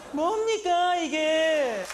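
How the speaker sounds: high, far put-on foreign worker cry of outrage; Blanca catchphrase. Comedian's migrant character protesting his lot. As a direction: throw up the hands in mock outrage.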